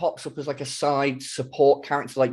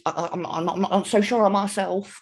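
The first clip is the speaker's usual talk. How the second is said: a light impression of squeaky, hesitant Joe Pasquale; a hint of nervous comic squeak; squeaky, unsure voice; 5 semitones higher than usual. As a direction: lightly squeak it, stammering with self-doubt. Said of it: "sort of squeaking".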